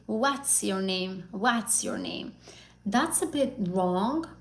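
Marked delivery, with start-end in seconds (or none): 0.1-2.3 "What's your name?" slow, "What's" with an open ah vowel; Turkish-style pronunciation. Shown as a demonstration. Teacher models a common Turkish learner error, slow and careful. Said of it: "Turkish people sometimes say".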